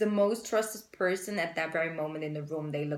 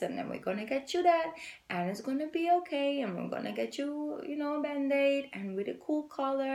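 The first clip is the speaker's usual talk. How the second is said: high, sweet reassuring mom voice; sing-song comfort to a crying kid; soothing voice to a child; 9 semitones higher than usual. Retold or imitated. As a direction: coo it like calming a hurt toddler. Soothing a hurt toddler.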